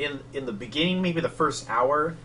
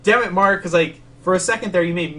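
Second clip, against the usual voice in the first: loud, higher exasperated "damn it"; exasperated outburst; 6 semitones higher, 7 dB louder than usual. Retold or imitated. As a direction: throw up your hands at Mark, loudly. Exasperated retelling to friend.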